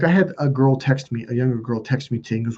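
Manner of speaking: ordinary talk, nothing marked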